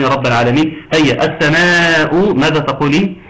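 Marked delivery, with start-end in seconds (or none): 1.2-2.3 "السماء" recited with a held double s and stretched aa; doubled seen, long madd. Shown as a demonstration. Teacher quizzing students on the doubled seen, elongated recitation of "السماء". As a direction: draw out "السماء" after a firm doubled seen. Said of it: "السين المشددة".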